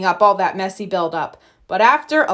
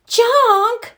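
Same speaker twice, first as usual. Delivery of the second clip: sharp high rising Junk, louder; horrified junk; 13 semitones higher, 4 dB louder than usual. Acted. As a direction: gasp it out in disbelief at the word. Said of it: "watching in horror".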